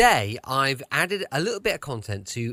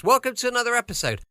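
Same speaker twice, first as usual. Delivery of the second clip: normal talking voice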